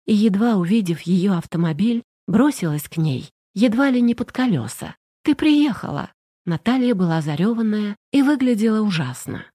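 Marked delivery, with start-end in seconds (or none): 5.2-6.1 relieved cry. Acted. Friend rushes to the car.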